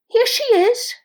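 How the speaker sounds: high, loud cawing crow voice. A narrator's reading. Mother crow presents her child to the Creator, loud high caw. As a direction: squawk it out proudly like a crow. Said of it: "the mother cawed".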